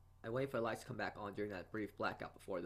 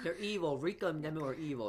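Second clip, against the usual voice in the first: higher and louder, half-joking outrage; indignant outburst; 7 semitones higher, 7 dB louder than usual. Real, not acted. Reader protests at the game girls, loud mock outrage. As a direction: call them out loudly, mock fury.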